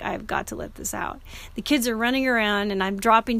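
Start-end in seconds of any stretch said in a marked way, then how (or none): 0.0-1.2 breathy whisper, softer; tearful whisper to herself. Retold or imitated. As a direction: let it out under your breath. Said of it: "I was in tears".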